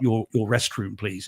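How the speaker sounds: politely apologetic posh English; posh English accent. Acted. Englishman politely begging a restaurant's restroom, posh English accent. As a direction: lay on mild, well-mannered English poshness. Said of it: "talk poshly in your English accent".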